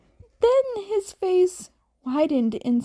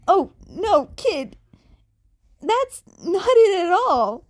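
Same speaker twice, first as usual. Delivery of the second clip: louder, higher, pleading reassurance; higher, louder reassuring voice; Yamada reassuring; 6 semitones higher, 6 dB louder than usual. A narrator's reading. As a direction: rush to comfort the kid. Yamada reassuring distressed kid.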